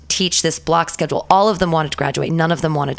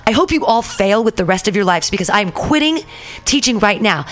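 higher-pitched re-enacted tirade; retold yelling; 4 semitones higher than usual. Fed-up teacher telling her class she quits, retold yelling. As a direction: rant at them without a full shout. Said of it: "I just yell at them".

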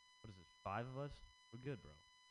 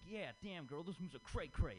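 mock song lyric voice; 8 semitones higher than usual. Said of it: "what Indians think a black person sounds like".

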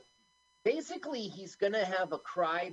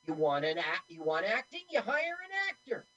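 smug mock retort, climbing high at the end; I-told-you-so; 5 semitones higher than usual. Woman crowing over the fired actor, I-told-you-so. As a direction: rub it in, pitch leaping up on the last line. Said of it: "An I told you so moment".

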